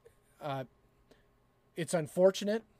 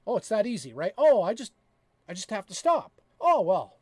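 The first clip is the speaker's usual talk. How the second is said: sarcastic; 3 semitones higher, 5 dB louder than usual. Acted. Mocking the advice stop sinning.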